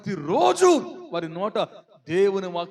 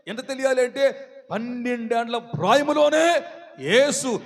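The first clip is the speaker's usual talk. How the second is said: raised, insistent pulpit voice; full-force preaching; 5 semitones higher, 4 dB louder than usual. Real, not acted. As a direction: build the list phrase by phrase.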